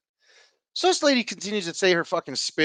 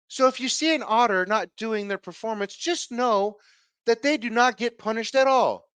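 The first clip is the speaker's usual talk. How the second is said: higher, lightly voiced presenter announcement; stage presenter; 5 semitones higher than usual. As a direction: lightly mimic a presenter addressing the audience.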